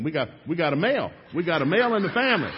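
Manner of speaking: high, loud joyful shout with a laugh; overjoyed loud exclamation; excited cheer. Real, not acted. Cheering at son's birth.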